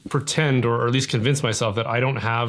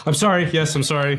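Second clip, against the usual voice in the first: lightly mocking Canadian 'I'm sorry', a bit higher; stereotypical Canadian apology; 4 semitones higher than usual. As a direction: play up the polite Canadian who apologizes for everything. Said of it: "that's the first thing a Canadian would say".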